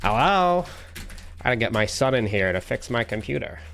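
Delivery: put-on clueless old guy lost with computers; boomer impression. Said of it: "my boomer impression".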